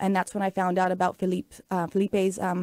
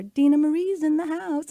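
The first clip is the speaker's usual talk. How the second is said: announcing call-out; 7 semitones higher than usual. Retold or imitated. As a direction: call out a guest's arrival in a raised voice. Retells friend announcing her from stage.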